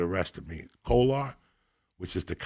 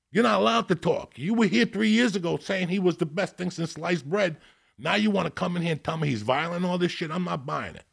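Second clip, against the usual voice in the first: a higher-pitched, scolding judge; stern judge; 8 semitones higher than usual. Retold or imitated. Judge silencing the ex-wife in court, mock stern. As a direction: dress her down from the bench. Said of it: "And he says to her".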